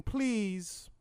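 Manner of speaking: high, sung-out request; mock orator's lilt; Martin Luther King. King prompting his interviewer, high singsong impression. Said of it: "talking in song".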